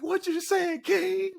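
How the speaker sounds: high, excited call with a laugh; hyped teammates. Retold or imitated. Teammates cheering Keem after his locker room speech, high and excited. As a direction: hype him up like a fired-up teammate.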